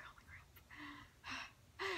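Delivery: very slow, breathy-soft whisper; slow awed whisper. Retold or imitated. Fan posing cheek to cheek, slow stunned whisper. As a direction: drag it out, barely voiced.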